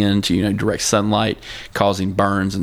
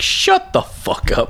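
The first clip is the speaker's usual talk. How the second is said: high, slow, breathy whisper; exasperated whisper; slower than usual. Retold or imitated. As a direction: whisper it in disbelief. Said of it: "I'm just like".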